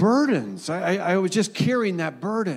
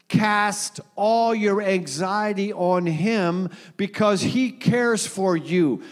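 slow scripture reading; slower than usual. Acted.

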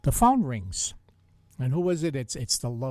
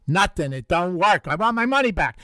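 louder, higher fake-indignant customer; mock complaint; 3 semitones higher, 6 dB louder than usual. Host jokes about the repair shop in mock outrage. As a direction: pretend to be outraged for a laugh. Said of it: "No, only kidding".

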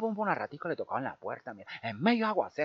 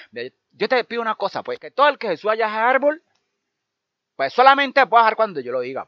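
put-on higher, louder, deliberate old woman voice; old woman's wish; 6 semitones higher, 12 dB louder than usual. Old woman telling the pilgrim her wish, loud and firm. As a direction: lay out the magic wish with firm weight.

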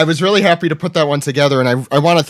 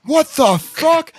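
high, drawn-out mock holler of astonishment; hammed-up crowd reaction, way up in pitch; imitated amazed moviegoer; 12 semitones higher, much slower than usual. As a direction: stretch it out high like a stunned audience member. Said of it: "someone in that theater being like".

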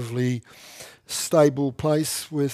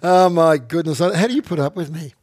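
mock dismay; 2 semitones higher, 6 dB louder than usual. Real, not acted. Laughing at her own cheek.

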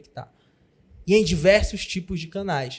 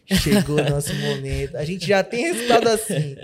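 calm confident boss; 4 semitones lower than usual. Retold or imitated. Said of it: "falei assim".

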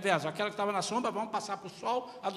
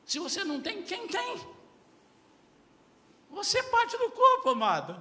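"quem tem?" leaps much higher, then "Você é parte do corpo" shouted; escalated second take of "quem tem?", climbing into a shout; rising challenge; 11 semitones higher, 6 dB louder than usual. Real, not acted. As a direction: build to a loud, high cry at the flock. Pastor challenging the congregation.

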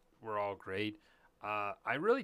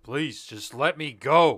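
loud, slow pleading; hammed-up plea to be let go; mock begging; 4 semitones higher, 15 dB louder, slower than usual. Dormammu begging, retold.

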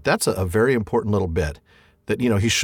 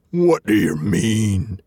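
very slow, suspicious troll voice; a slow troll squinting at him; troll Bert; 3 semitones lower, much slower than usual. Acted. Bert holding Bilbo by the hair, very slow suspicious troll voice. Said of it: "said Bert".

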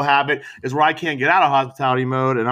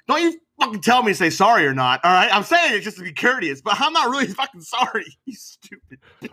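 higher-pitched imitated angry rant, ending in a voiceless hiss; mock angry retort; 6 semitones higher than usual. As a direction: act out telling off a stranger, half joking. Acted angry retort to shopper.

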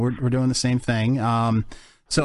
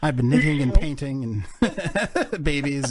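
mock soft-rock lyric; slower than usual. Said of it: that it sounds like the lyrics from every song of a band.

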